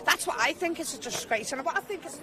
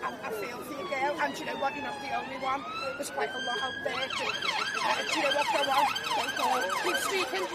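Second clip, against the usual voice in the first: emotional. Real, not acted. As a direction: voice breaking up high with emotion. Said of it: "I'm a bit emotional right now".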